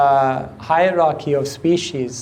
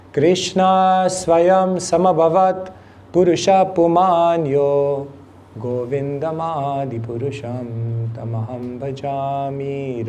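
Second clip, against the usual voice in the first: reciting verses; 3 semitones lower than usual. Real, not acted. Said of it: "I like these verses, you can tell".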